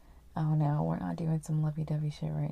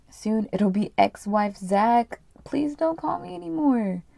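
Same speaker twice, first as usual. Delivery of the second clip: louder, then higher-pitched plea; acted firm rejection; 3 semitones higher, 4 dB louder than usual. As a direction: cut off your husband melodramatically. Wife ends the call, acted.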